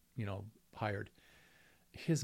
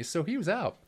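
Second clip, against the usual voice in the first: ordinary talk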